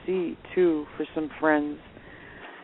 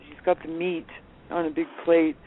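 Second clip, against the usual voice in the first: ordinary talk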